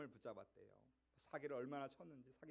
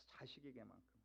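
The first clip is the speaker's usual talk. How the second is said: soft echo; 5 semitones lower, 12 dB quieter than usual. Shown as a demonstration. Preacher repeats the key word softly.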